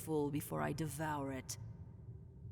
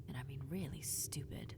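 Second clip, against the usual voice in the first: whispered insult; 5 semitones lower, 7 dB quieter than usual. Acted.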